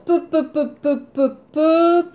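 pe, pe, pe tapped out crisply over and over; teacher drilling the p sound; repeated p sound. Shown as a demonstration. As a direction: drill the French pe for learners.

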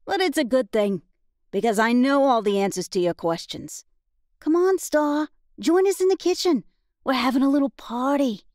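high, lilting flirtatious woman; lightly voiced coy seductress; flirty Annalise voice. Annalise's voice, narrator voicing her.

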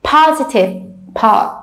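"Positive" with PO stressed, then "pa" alone; PO-sitive, then echo "pa" by itself; stress on first syllable. Shown as a demonstration. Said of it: "see where's the stretch".

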